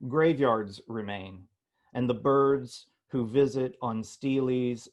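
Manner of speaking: measured poetry recitation with pauses between phrases; solemn, deliberate poet's reading voice; poem reading. Acted. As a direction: read a poem aloud, letting each phrase stand. Reads own poem aloud.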